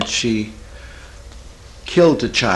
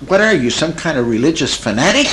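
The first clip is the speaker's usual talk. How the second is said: higher, incredulous mock accusation; mock badgering; 5 semitones higher, 3 dB louder than usual. Therapist getting on his client's case, mock badgering. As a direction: needle them with a hammed-up question. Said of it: "get on her case".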